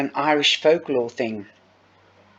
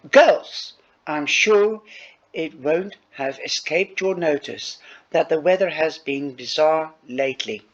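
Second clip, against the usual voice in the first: a teacher's formal announcement, lightly voiced; 3 semitones higher than usual. Shown as a demonstration. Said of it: "She might even talk in an Irish voice like this".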